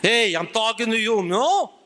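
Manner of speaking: lightly voiced Italian mobster; a hint of a Godfather threat; mock mafia Italian; Godfather impression. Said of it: "That's like the Godfather".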